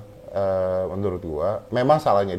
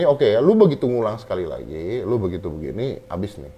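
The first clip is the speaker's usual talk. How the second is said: mild retold warning; 2 semitones lower than usual. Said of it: "Dia bilang gitu".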